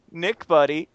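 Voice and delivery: calm coaxing voice. Retold or imitated. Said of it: "the most calmest ... skittish cat voice".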